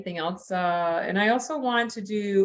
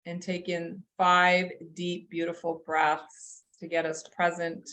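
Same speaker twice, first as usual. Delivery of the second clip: guided meditation; slower than usual. Acted. Leads group into meditation.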